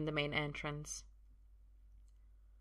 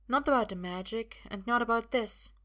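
lightly voiced higher woman; raised pitch, measured insistence; insistent woman; 5 semitones higher than usual. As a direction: press the point firmly. Sophia insists, menacing.

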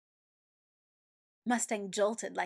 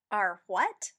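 scoffing; 10 dB louder than usual. A narrator's reading.

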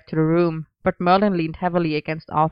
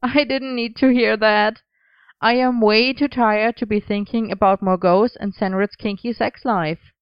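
groaning; 4 semitones higher than usual. Acted. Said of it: "Merlin groaned".

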